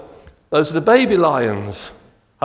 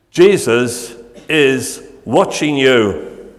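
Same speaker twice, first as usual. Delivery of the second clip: slow, deliberate parrot voice; drawn out parrot voice; slow parrot warning; 4 dB louder, much slower than usual. Acted. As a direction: spell it out like a smug bird. Parrot speaks to burglar.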